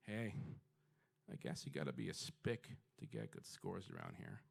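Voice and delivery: put-on low, cold, sneering old lady; old lady's cruel remark. Old lady leans over to sneer a racist jab. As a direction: hiss it out like a bigoted grandma. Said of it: "she just goes".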